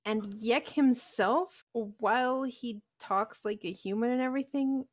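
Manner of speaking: lightly voiced goblin inflections; a hint of goblin in the voice. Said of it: "you are voice acting like a goblin".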